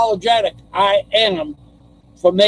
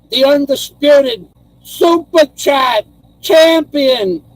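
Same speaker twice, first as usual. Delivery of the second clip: hammed-up announcer; 3 semitones higher than usual. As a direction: introduce the champion like a boxing announcer. Grand dedication to subscriber.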